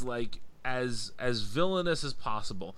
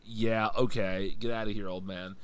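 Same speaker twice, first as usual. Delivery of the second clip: dismissive cop; 3 semitones lower than usual. Retold or imitated. Retelling cops brushing hero off.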